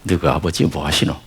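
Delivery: lightly attempted Gyeongsang accent; a hint of Gyeongsang dialect. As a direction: try the Busan dialect question, not quite landing. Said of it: "첫 번째 알려준 게 뭐냐".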